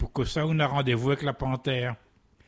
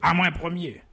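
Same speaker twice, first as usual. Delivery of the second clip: roaring lion demand; 4 semitones higher than usual. Acted. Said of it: "Le lion l'a rugi un coup".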